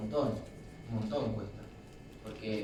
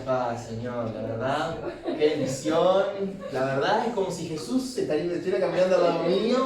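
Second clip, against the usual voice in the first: louder and higher, hammed-up rapture; mock gushing praise; 5 semitones higher, 7 dB louder than usual. Mocking a hypocritical brother, hammed-up loud rapture. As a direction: overplay fake holy delight. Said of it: "hipocresía y pico".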